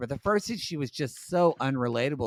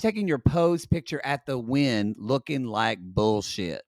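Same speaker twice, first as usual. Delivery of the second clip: mock insult. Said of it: "and I'm like".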